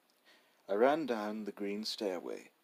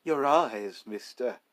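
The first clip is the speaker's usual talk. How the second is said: soft, pained voice; 3 semitones higher, 7 dB louder than usual. Acted. Robber answering the narrator, soft and pained. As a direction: say it almost painfully. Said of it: "the soft, almost painful voice".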